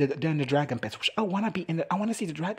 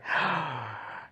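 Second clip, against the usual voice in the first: mock gasp; 4 dB quieter than usual. Acting her awed reaction.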